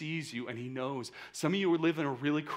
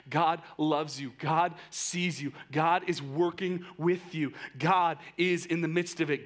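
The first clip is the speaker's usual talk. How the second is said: God loves you, said slow and firm; slow, earnest reassurance; 3 dB louder than usual. Real, not acted. Pastor assuring hurting listeners, slow and deliberate. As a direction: lay each promise down slowly.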